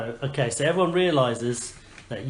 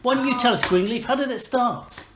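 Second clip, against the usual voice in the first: higher-pitched pleading curiosity; eager townsfolk; 6 semitones higher than usual. Acted. Townsfolk beg adventurers for the story, high and eager. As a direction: coax the heroes for their tale, voice pitched up. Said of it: "everyone gathers around in the".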